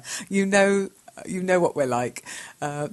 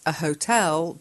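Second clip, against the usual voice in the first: ordinary delivery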